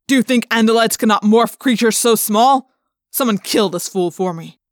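loud, cold contempt, then a curt order; a tyrant sneering at fools; cruel alien commander. Acted. Alien commander scolding his men.

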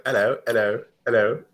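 playful mimicked English hello; English accent. Telling a friend how funny London accents are, mimicked English accent. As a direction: imitate an English accent, dropping the h. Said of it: "accents are funny. I'm just like".

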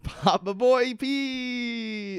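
high, slow, hammed-up reveal; silly announcer voice. Podcaster hams up the return of Locke's dad, high and slow. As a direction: crow out the dad's big return.

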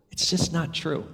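a quiet, settled repeat of "It's just not true". Real, not acted. Preacher repeating the point to the congregation, softly.

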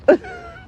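laugh. Real, not acted. Laughs at own story.

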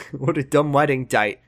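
attempted Australian accent, "date" turned toward "dite". Co-host echoing the mocked wedding line, playful Australian accent. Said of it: "he went super Australian on".

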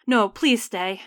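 loud begging call; pleading call. Acted. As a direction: beg the spirit not to leave. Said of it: "Agnes's father called".

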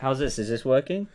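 muffled, as if speaking into a cup. Pretend. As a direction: talk into a cup to sound like Bane. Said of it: "You should try talking into a cup".

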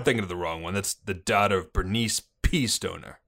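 put-on police chief briefing in a Boston accent; gruff-cop Bostonian, dropped R's. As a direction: lay out the case in Boston cop talk. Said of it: "is that a Bostonian accent there?".

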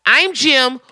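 very slow, high, over-enunciated greeting; slow introduction. Retold or imitated. Man introduces himself to his basement demon, slow and careful. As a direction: spell it out loudly to the stranger.

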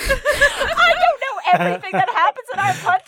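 high, squealed defence through laughter; indignant but cracking up; laughing protest. Real, not acted. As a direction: push the words out over giggles. Laughing protest back at friend.

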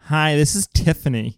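slow, drawn-out secretary greeting; receptionist. Acted. Tiffany picking up the phones at work, drawn-out receptionist voice. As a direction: answer the phone as a receptionist, dragging the words. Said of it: "she answers the phones".

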